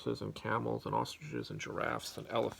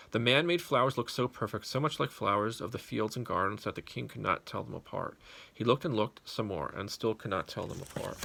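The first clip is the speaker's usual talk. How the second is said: lively story narration. A narrator's reading. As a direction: tell it big for the kids. Reads story to children.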